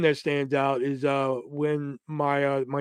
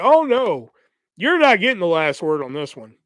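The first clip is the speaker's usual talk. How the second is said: defiant; 2 semitones higher, 4 dB louder than usual. Retold or imitated. Refusing to let her win.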